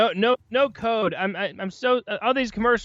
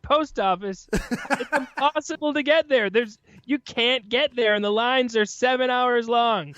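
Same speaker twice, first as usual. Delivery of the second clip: higher, exaggerated mock despair; mock ad complaint; 4 semitones higher than usual. Podcaster spoofing a post office ad, mock despair. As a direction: overplay the hardship like a commercial.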